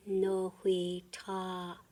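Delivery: "No hui ta ya ka yu" split into slow separate syllables. Shown as a demonstration. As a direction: break "da sin ta hin" apart slowly, syllable by syllable. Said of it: "Say it with me".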